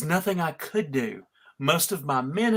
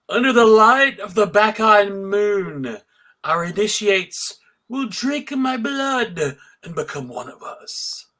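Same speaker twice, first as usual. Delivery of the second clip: loud, grand villain's declaration, pitched higher; villainous proclamation; 4 semitones higher, 5 dB louder than usual. Acted. Bacchus to his Bacchae, loudly gloating over his coming triumph. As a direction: proclaim it to your followers like a gloating god.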